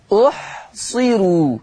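أحصروا with a thin, light r; أحصروا in measured tajweed, the ra thinned. Shown as a demonstration. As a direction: slowly say أحصروا, keeping the final ru unvelarized. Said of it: "ترقيق الراء".

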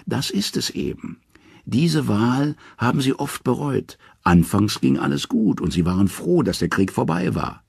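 high, lightly voiced talking head; a wise head explaining wearily; Mime's head. Mime's head explains the Vanir's regret to Odin, high voice.

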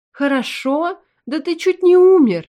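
mother yelling at her reckless son; furious outburst. A narrator's reading. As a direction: blow up at him in disbelief. Mother scolds son for risking death.

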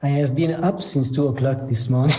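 husky from waking at two; hoarse, sleepy husky tone. Real, not acted. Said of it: "If you hear my husky voice".

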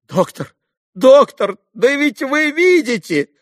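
captain showing the bare room; despairing captain. A narrator's reading. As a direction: point at the poverty in despair.

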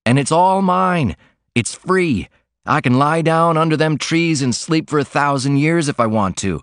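a laundryman longing for the open road, gleeful; joyful cry. Acted. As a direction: burst out like a man let loose. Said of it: "he cried".

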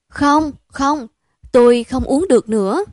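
high, loud repeated no; flat refusal. Acted. Đức refuses another drink, high and loud. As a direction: refuse fast, pushing it away. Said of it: "Nó chối lia".

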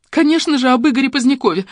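high, plaintive wail; acted tearful outburst; sobbing. A narrator's reading. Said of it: "всхлипнула Фоменко".

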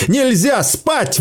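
very high, slow, drawn-out panicked cry; terror-stricken wail; desperate wail. Acted. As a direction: howl that you must not sleep. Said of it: "вопил Сейл".

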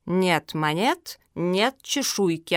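slow, deliberate refusal; curt refusal. Acted. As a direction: lay down the terms slowly, word by word. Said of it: "отрезала Зоя".

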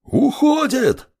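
sharp high shout. A narrator's reading. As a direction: call it out, pitch leaping up. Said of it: "выкрикнул Владимир".

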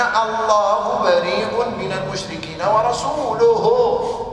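slow recitation, الله as Allahu and ورسوله as wa-rasuluhu; u endings drawn out on الله and ورسوله; nominative endings. Shown as a demonstration. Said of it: "رسوله معطوف على الرفع مرفوع".

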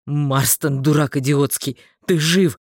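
low, loud, worried call; urgent calling. A narrator's reading. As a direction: shout at an unconscious friend. Shakes unconscious friend, calling.

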